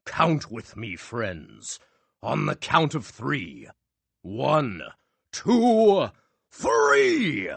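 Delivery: building countdown. A narrator's reading. Magician counting down with the crowd, building to a shout. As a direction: count climbing to a high loud three.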